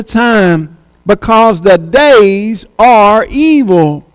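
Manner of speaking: slow, measured reading of the verse; preacher slowly reading scripture. Acted. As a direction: read it out slowly, weighing each phrase.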